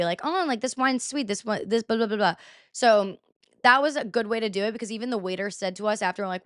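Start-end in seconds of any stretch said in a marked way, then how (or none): 0.2-2.3 hammed-up snooty wine critic; mock snobby wine talk. Friends mock-judging wine at the table, snobby. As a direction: play a snob tasting wine. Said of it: "super snobby".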